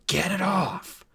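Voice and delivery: high, strained cry; desperate pained dwarf yell; howl of pain. Acted. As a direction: howl the order through the pain. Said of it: "howled the dwarf".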